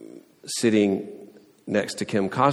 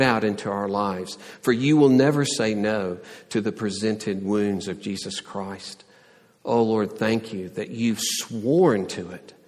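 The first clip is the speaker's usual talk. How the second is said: prayer. Acted. Closing prayer.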